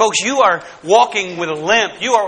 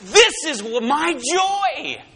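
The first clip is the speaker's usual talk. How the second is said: joyful God; 10 semitones higher, slower than usual. Acted. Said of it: "no, he says".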